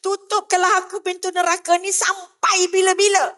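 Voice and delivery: urgent supplication to God, piling up each plea; pleading prayer. Acted. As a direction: plead earnestly as if praying aloud. Preacher acts out pleading prayer.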